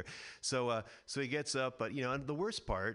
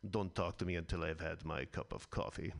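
low grumpy hiss; hissed through teeth; 6 semitones lower than usual. Pretend. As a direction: grit your teeth and hiss. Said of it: "he hisses through his clenched teeth".

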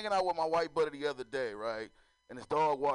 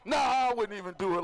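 laughing refusal; 6 semitones higher, 6 dB louder, faster than usual. Retold or imitated. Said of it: "I was like".

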